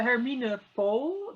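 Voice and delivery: Hermine Pool said the Dutch way, Her-MEE-nuh with a long round O in Pool; correct Dutch name. Shown as a demonstration. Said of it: "That's the correct pronunciation".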